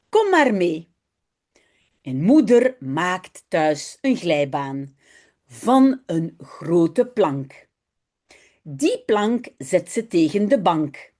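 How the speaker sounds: slow, careful reading aloud for learners; story reading. A narrator's reading. Teacher reading a Dutch story aloud to her students. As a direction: read each sentence slowly and clearly.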